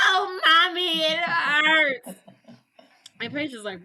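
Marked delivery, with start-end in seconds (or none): 0.1-2.1 put-on high, whimpering mama's boy; hammed-up man-baby sobbing; wailing in pain. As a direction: cry to mommy in mock agony. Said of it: "He is hurling in pain".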